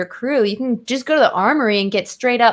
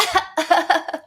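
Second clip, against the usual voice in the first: imitated laugh; 7 semitones higher than usual. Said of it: "Her laugh is like".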